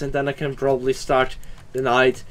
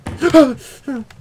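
loud, high gasp of fright; sharp startled intake; 10 semitones higher, 7 dB louder than usual. Real, not acted. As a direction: gasp as if jumped by something. Startled by chair in horror game.

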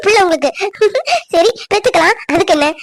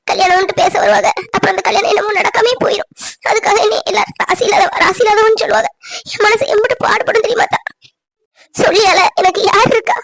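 pleading, close to crying; tearful lament. Acted. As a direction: pour out hurt through tears. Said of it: "சந்தோஷமா இருக்கிற நேரம் அழவா செய்வாங்க".

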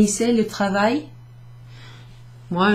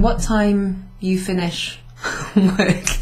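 wrong version; slower than usual. Shown as a demonstration. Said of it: "otherwise, you're saying".

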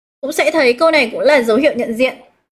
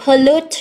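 pollute with stress on LUTE; stress on second syllable; 2 semitones higher than usual. Shown as a demonstration. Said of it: "cũng nhấn vào âm thứ hai". (nhấn âm hai của pollute)

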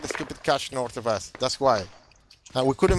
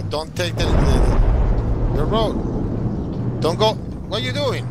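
frantic yelling; 3 semitones higher, 5 dB louder, slower than usual. Real, not acted. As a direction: yell at the driver in alarm. Frantic orders to bad driver.

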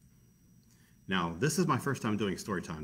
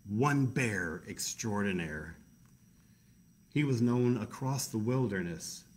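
story narration. A narrator's reading.

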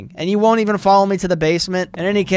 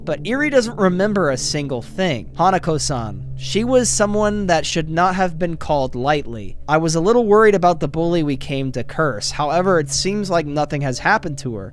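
story narration; 2 semitones lower than usual. Acted. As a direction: read the ending like a storyteller. Reads story epilogue text.

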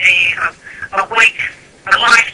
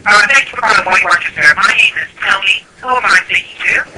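speaking up. Real, not acted. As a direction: speak up clearly so he can hear. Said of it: "Could you please speak up".

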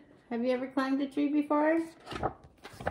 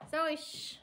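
hushing; 4 semitones higher, 9 dB quieter than usual. Real, not acted. Hushing her dog mid-goodbye.

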